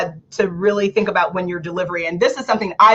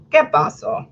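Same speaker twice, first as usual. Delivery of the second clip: ¿Qué pasó? whispered, higher; whispered que paso; 7 semitones higher than usual. Real, not acted. Whispering ¿Qué pasó? to the audience, higher. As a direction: breathe it out as a whisper. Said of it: "unvoiced repeat".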